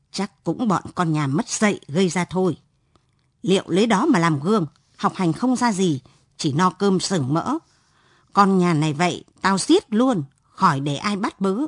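a hint of a stern father's warning; mild scolding threat; threatening tone. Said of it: "giọng đe nẹt".

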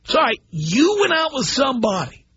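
a hammed-up indignant yell; mock indignant shout. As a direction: shout it like an appalled caller. Voicing a listener's objection.

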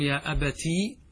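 lengthened "tii" at the end of أبتي; ya after ta. Shown as a demonstration. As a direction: hold the final ee of أبتي, "abatii". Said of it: "هل نجمع بين الياء والتاء؟".

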